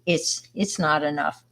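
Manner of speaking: soft, meek retelling of the line; a ghost kid's meek complaint at the door; meekly. Retold or imitated. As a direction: say it small and timid. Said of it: "said very meekly".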